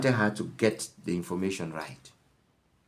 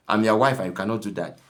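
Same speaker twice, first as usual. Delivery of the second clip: "I'm your wife" pushed out louder, demanding; raised nagging wife; 4 dB louder, faster than usual. Retold or imitated. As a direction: insist on your rights, voice up. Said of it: "that is the tone of the woman".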